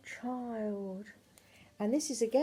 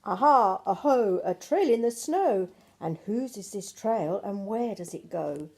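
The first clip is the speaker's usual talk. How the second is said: excited discovery; 5 dB louder than usual. Acted. Gruffalo's child spots a trail.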